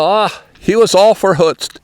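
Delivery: put-on light Pennsylvania Dutch accent, lilting "verhutzt"; a hint of the Pennsylvania Dutch way of saying "verhutzt". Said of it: "they sort of have that accent".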